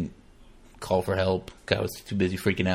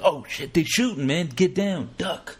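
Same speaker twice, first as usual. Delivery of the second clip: hammed-up panic, pitched higher; playful alarmed yelp, higher; mock freaking out; 8 semitones higher than usual. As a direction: pretend to panic as shots ring out. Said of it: "I'm gonna be freaking out like".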